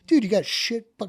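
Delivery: high, loud frantic shout; panicked yell. Retold or imitated. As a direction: shout it while stumbling under fire. Panicked running under fire.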